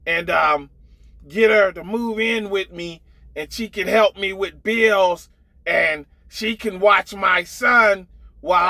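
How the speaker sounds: shouty mock imitation of a woman pleading her case; imitating Janet. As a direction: ham it up, calling out her plan to a buddy. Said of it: "y'all know that's how she sound".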